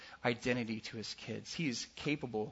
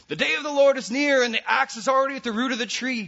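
loud, high fiery preaching cry; mock fire-and-brimstone shout; prophet's proclamation; 11 semitones higher, 11 dB louder than usual. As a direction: thunder it like a desert prophet. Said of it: "John was proclaiming".

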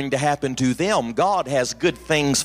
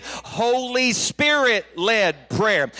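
Holy Spirit-led prayer said slowly, every word spaced; slow, drawn-out call; 3 semitones higher, much slower than usual. Shown as a demonstration. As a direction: lead the crowd through it slowly. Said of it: "Say that with me".

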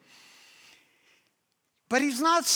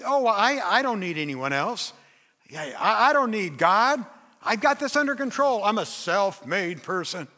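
arrogant. Retold or imitated. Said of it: "the opposite of poor in spirit is to be arrogant".

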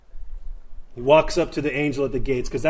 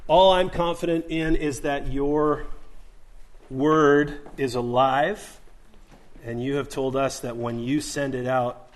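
closing prayer. Acted. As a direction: pray sincerely over the church.

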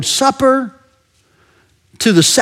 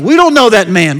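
mock denial; 2 semitones higher, 4 dB louder than usual. Disciples disowning Jesus out of momentary shame, emphatic denial. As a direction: blurt out a quick disavowal.

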